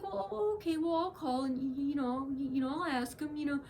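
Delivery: a hint of a cowed, flustered man; stammering backdown. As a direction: mimic a caught man fumbling. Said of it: "He's like".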